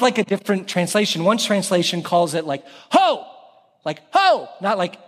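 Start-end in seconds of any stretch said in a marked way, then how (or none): 2.9-3.2 high hailing shout of a sailor; big, high-pitched call-out; sailor's call. Shown as a demonstration. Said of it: "more like a sailor who's saying". 4.1-4.5 high, short hailing cry; high-pitched hail to get attention; sailor's call. Shown as a demonstration. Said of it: "more like a sailor who's saying".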